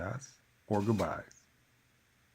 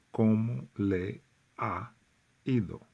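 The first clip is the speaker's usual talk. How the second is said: "¿Cómo le ha ido?" spaced out word by word; teacher spelling out the phrase; slow and careful; 5 dB louder than usual. Shown as a demonstration. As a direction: say each word of "¿Cómo le ha ido?" apart, a little slowly. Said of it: "it sounds like one word".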